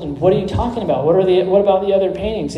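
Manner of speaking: rushed, indignant-sounding confused questions; retold puzzlement. Puzzled bidders question the auctioneer about the other paintings, quick retold bafflement. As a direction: fire off baffled questions quickly, lightly acted. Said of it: "they were very puzzled".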